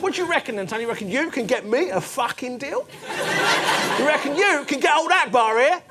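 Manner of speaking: loud cockney haggling; cockney geezer. Retold or imitated. Haggling with the builder in a loud cockney accent. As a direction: geezer pushing for a deal. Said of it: "talking to him like I was Danny Dyer".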